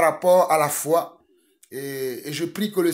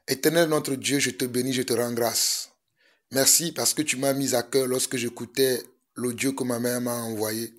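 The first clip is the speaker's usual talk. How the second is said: prayer; 3 semitones lower than usual. Acted. Leads a prayer.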